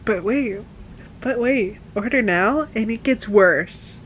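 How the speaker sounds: loud hammed-up TV ad pitch; infomercial pitch. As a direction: sell it like a late-night ad. Infomercial parody.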